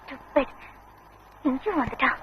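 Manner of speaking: low, very soft grumble; muttered annoyance. Acted. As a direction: mutter under your breath. Girl mutters about suitor's arrival.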